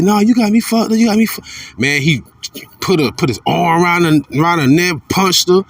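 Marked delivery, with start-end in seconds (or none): 0.0-1.4 retold defiant protest. Woman resisting arrest in video.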